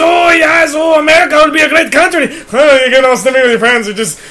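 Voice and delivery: manic rapid-fire comic riffing; Robin Williams. Retold or imitated. Guest bursting in on the podcast as Robin Williams, manic. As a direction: bounce between silly voices at full speed. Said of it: "all right, Robin had to go".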